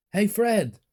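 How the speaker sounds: high, loud scolding call; dad shouting. A narrator's reading. Dad calls out to his son in the car, shouting. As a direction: call the child sharply to attention. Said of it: "my dad shouted".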